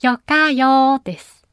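よかよ spoken slowly and clearly as a dialect demo; teaching よかよ; Nagasaki dialect word. Shown as a demonstration. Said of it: "紹介したい言葉は".

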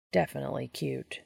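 sleepy whisper into the pillow. Acted. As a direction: breathe it, barely voiced and fond. Castiel murmurs from under blanket.

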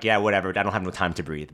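put-on dismissive old self. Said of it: "old Lamar would have been like".

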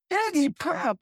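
high hyped-up name; excited announcement. Retold or imitated. Producer flipping the gig to a singer, high excited announcement. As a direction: announce it like a prize.

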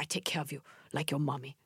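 soft, lightly imitated Korean accent; Doctor Na's Korean accent. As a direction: reassure softly with a slight Korean accent. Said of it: "I'm imitating her".

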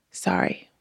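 hushed, low murmured apology; said softly. A narrator's reading. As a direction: drop low and almost voiceless. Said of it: "hear him say softly".

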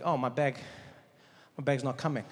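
low, deflated realisation; a touch of heartbreak over the bag; mild mock despair; dismayed.

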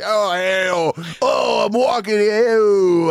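a bad attempt at a Wisconsin New York accent, shouting. Joking about how a Wisconsin New York cop sounds, hammed-up Wisconsin New York accent. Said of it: "Wisconsin, New York accent has to just be delicious".

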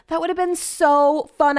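frustrated regret. Real, not acted. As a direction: mourn the missed chance. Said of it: "I'm so annoyed".

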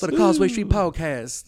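high, slow, hammed-up Southern accent; bad Southern accent. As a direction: draw out a badly faked Southern accent. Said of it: "Southern accent needs some work".

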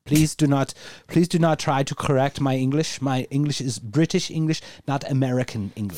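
a light mock German accent, w said as v; stiff, proper German douchebag. Deutschmark insists on British English, light mock German accent. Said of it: "I just channeled some German douchebag".

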